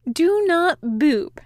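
slow, loud, firm warning; stern warning. A narrator's reading. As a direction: lay down the law. Demon warning after boop.

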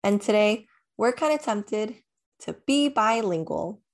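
ordinary delivery

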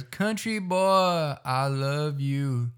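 drawn-out, high Vine quote; high-pitched, slow meme imitation; imitated Vine. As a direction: stretch each word long, mimicking the video. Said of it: "yeah, it goes".

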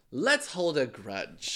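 slow, drawn-out mock relish; mock grudge-holder. Imitating people who nurse a feud, drawn-out mock relish. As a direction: stretch out the last word theatrically.

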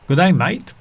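a light Australian accent, day lifted at the end. Shown as a demonstration. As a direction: greet a mate the Australian way. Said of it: "czy pan mówi po angielsku z australijskim akcentem". (lekki australijski akcent)

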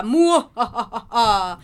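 slow evil villain cackle; mustache villain. Pretend. After "miércoles apóstata" intro.

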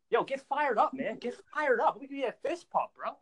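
high-pitched hype-man pep talk; reenacting his own hallway rallying cry, pumped; fired up. Teen hypes up classmates in school hallways, fired up. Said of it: "you just feel motivated".

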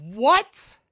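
high, loud disbelieving what; can't believe the number, shout it; incredulous what. Real, not acted. Reacting to sixty dollars gas.

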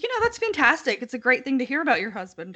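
high, bright mock-sarcastic gush; hammed-up sarcastic approval; sarcastic quote. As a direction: sell fake delight, then rush it. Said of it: "She's like".

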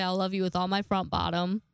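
mixing up the words "with all my front bottom"; garbled sign-off. Shown as a demonstration. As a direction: say "I love you with all my front bottom" as a casual slip. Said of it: "If I don't look at the script, then I'll say".

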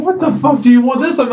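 high exasperated snap; annoyed. Retold or imitated. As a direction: snap it out, fed up. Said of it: "I'm sitting there thinking".

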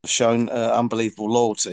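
muffled, garbled phone audio; like talking through water; underwater. Real, not acted. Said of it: "You sound like you're underwater".

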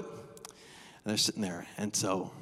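slow soft whisper; hushed suspense. Real, not acted. Preacher building suspense for the audience, whispered. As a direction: draw out the tension.

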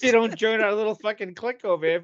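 loud mock threatening; Puritan threat. Puritans threatening people with Frau Bertha, loud mock menace. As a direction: scare them into the clique. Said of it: "They go".

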